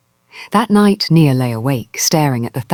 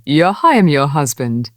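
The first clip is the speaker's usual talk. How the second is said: simply said. Acted. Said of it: "he said simply".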